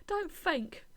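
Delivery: "think" as "fink", high and loud; loud, high imitation of th-fronted "think"; mock "fink" pronunciation. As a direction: exclaim it with an f in "think". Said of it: "say things like, "Think".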